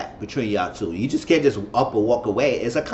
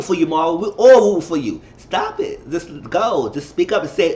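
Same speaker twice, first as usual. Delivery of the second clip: excited urging; 4 semitones higher than usual. Real, not acted. Urging Mama on.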